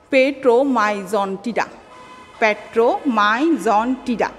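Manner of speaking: পেট্রোমাইজন্টিডা spoken slowly, syllable by syllable; slow pronunciation. Shown as a demonstration. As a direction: sound out পেট্রোমাইজন্টিডা carefully. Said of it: "উচ্চারণ করে করে পড়বা".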